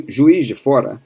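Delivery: juiz de fora with sh sounds, zhu-EESH; Rio accent. Shown as a demonstration. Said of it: "because ju".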